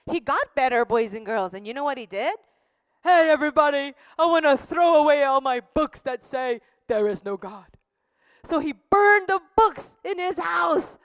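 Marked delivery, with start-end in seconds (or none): 3.0-7.7 a lightly voiced man calling out, louder; excited convert. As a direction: call out to everybody, eager. Converted man announces book burning.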